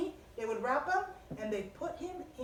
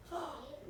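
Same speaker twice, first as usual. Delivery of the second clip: mock gasp; 10 dB quieter than usual.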